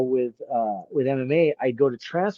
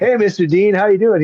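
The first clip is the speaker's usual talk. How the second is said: higher, louder, overly polite phone greeting; eager; 7 semitones higher, 7 dB louder than usual. Retold or imitated. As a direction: sound suddenly keen and respectful. Calling Herb back, retold.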